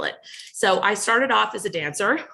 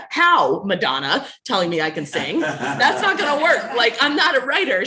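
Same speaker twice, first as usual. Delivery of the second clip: laughing protest; 2 semitones higher, 4 dB louder than usual. Retold or imitated. Retold protest to mother.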